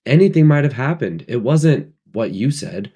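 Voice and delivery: high, loud hurried pleading; excited. A narrator's reading. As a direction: keep the agitated push. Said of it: "said Piggy excitedly".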